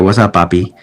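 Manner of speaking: put-on a light Mexican accent, relaxed and friendly; lightly voiced Mexican accent, casual greeting. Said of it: "but I can do the accent for you".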